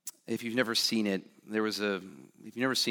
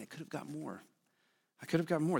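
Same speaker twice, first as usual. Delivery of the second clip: softer, quietly pained repetition; hushed regret; 3 semitones higher, 7 dB quieter than usual. Retold or imitated. Preacher voicing Schindler's lament, hushed. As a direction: let the regret sink, softly.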